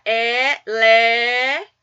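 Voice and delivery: "Elefante" very slow, four beats with long pauses; syllable by syllable. Shown as a demonstration. Teacher correcting the exercise, "Elefante" syllable by syllable. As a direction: stretch and separate e, le, fan, te in "Elefante". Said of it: "Quantas vezes?".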